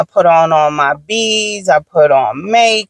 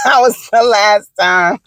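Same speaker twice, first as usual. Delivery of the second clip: said through a laugh; slow, amused punchline breaking into laughter; can't help laughing at the memory; slower than usual. Real, not acted. Laughs at her own story.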